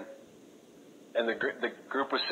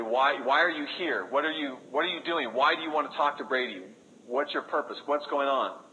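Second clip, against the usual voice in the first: retold frantic screaming; 4 semitones higher than usual. Armed gang boys shouting at the missionaries, in a mock frantic yell. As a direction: fire off panicked questions in a half-acted shout. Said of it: "they're screaming frantically".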